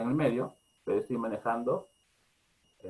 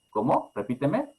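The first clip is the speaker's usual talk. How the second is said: gentle request. Shown as a demonstration. Parent calmly asking child to repeat, gentle rise. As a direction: ask kindly for a repeat. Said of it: "Es la forma, la forma equilibrada".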